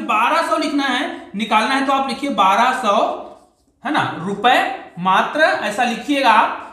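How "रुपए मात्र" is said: ordinary talk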